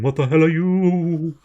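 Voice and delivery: creature voice. Acted. Creature echoes question.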